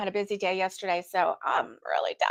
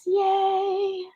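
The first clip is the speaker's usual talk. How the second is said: excited yay; 10 semitones higher than usual. Real, not acted. Finding the banners.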